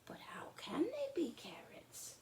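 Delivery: high, hushed pretend puzzlement; brother whispering. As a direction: whisper as if sharing a secret. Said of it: "said Charlie".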